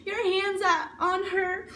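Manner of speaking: mom's outraged shouting, retold with force; retold yelling. Mom confronting him over her daughter, retold yelling. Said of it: "She's yelling at me, at him".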